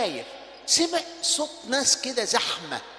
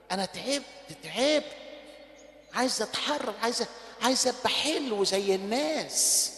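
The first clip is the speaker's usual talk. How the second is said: weary prayer; 2 semitones lower, 7 dB quieter than usual. Acted. Preacher voicing a tired sinner's prayer to God, soft and weary. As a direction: pray it quietly like an exhausted son.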